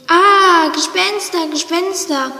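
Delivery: frightened shriek. Acted. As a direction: shriek in fright, then trail off. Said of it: "Tom kreischte".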